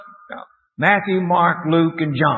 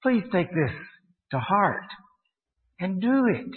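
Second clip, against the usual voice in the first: higher-pitched, measured appeal in short phrases; earnest admonition; 5 semitones higher, 4 dB quieter than usual. Real, not acted. Teacher urging the congregation to follow Paul, admonishing. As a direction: urge them earnestly, phrase by phrase.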